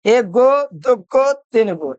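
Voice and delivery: counting very slowly, one by one; teacher counts slowly on the board. Shown as a demonstration. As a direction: count the carbons slowly for kids. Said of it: "count करो".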